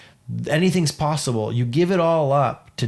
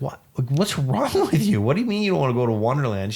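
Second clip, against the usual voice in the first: laughing disbelief; 2 semitones higher, faster than usual. Retold or imitated. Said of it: "I'm like".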